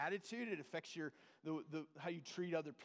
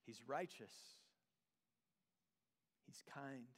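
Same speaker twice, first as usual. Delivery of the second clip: hushed reverence; 4 semitones lower, 4 dB quieter than usual. Real, not acted. Reverent list of God's qualities.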